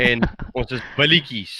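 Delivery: broad Afrikaans accent. Shown as a demonstration. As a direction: say it like a proud Afrikaner. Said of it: "You have to do that Afrikaans accent".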